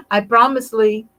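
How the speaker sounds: emphatic promise. Real, not acted. Host promising a viewer she'll hug Rod, loud playful promise.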